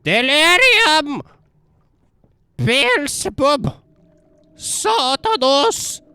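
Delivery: high, slow, drawn-out cries; slow dramatic proclamation. Pretend. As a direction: intone each name like a spell. Dramatic chanting names.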